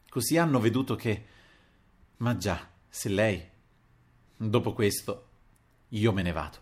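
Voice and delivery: a touch of a strangled, tearful voice; understated halting grief; choked with anguish. Acted. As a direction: speak as if the throat is tightening. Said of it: "come strozzato dall'angoscia".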